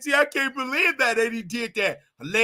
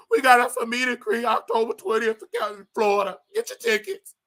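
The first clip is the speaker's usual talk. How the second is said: imitating crying. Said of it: "And she just crying".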